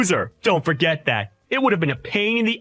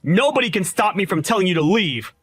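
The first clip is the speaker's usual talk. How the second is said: angry taunting; 8 semitones higher than usual. Acted. Groom taunting rival at wedding.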